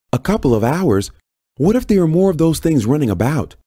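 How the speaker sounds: high-pitched, alarmed yell; agitated yell. A narrator's reading. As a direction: raise your voice in pressing, indignant questions. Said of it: "Janice yelled".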